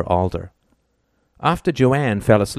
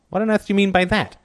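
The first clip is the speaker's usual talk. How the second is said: irritated; 11 semitones higher, faster than usual. A narrator's reading. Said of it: "He scowled".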